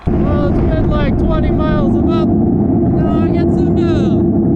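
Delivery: loud, high, strained calling out; shouting over wind. Real, not acted. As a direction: yell above the rushing air.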